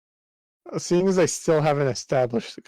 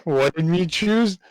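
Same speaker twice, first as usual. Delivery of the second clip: higher, punchy Saturday cartoon announcer; cartoon intro announcer; 4 semitones higher than usual. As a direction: hype the next episode like a cartoon narrator. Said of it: "cartoon announcer voice right now".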